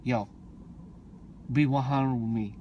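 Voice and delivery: girlfriend's lightly imitated street slang; a hint of low, slurred movie gangster talk. Girl asks Creed's son to be honest, lightly imitated street gangster. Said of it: "the way he talks".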